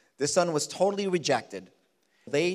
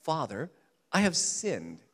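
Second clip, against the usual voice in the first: plainer rehearsal; 3 dB quieter than usual. Retold or imitated. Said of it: "I can imagine him practicing that".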